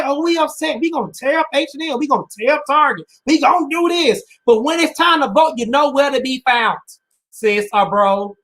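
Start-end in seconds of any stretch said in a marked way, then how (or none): 0.0-4.2 mocking quote. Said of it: "We love to say".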